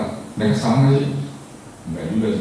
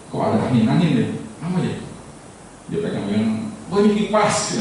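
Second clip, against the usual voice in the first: puzzled then surprised; 3 semitones higher, 4 dB quieter than usual. Acted. Fourth blind man touching the ear, puzzled then delighted. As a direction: puzzle over the breeze, then realise.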